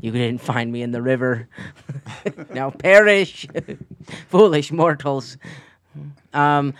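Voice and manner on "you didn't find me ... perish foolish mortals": dark lord. Acted. GM voices Cyrus as vengeful villain.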